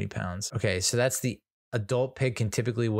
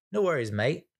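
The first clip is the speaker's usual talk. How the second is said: put-on light Australian accent, pitch up a bit; casual Aussie mate, lightly imitated; 5 semitones higher than usual. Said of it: "had an Australian accent".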